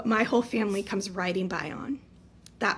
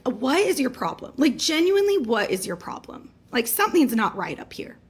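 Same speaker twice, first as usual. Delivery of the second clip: raised, heated scolding of mom; angry outburst; 4 semitones higher, 5 dB louder than usual. Retold or imitated. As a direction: tell her off, voice climbing. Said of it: "I go off on her".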